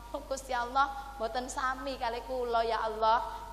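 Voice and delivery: mildly plaintive plea to God; lamenting hen. Acted. Hen lamenting to God about her egg, mildly plaintive. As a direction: lightly voice a hen's complaint. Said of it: "itu ayam sambat kali Gusti Allah".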